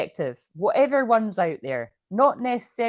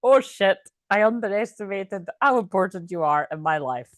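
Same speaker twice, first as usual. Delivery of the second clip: mock realization. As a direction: blurt it like a sudden hammed-up discovery. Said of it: "I'm gonna do that every time".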